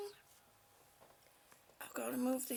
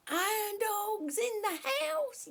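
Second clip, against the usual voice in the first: loud, slow hype call; hype announce; 5 semitones higher, 5 dB louder, slower than usual. Real, not acted. Welcoming a viewer, a loud slow hype call. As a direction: announce him like a ring entrance.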